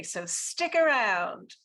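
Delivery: slow, drawn-out urging; upbeat plug. Real, not acted. Host urging everyone to stick around, drawn-out and upbeat. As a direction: stretch it out, coaxing them to stay.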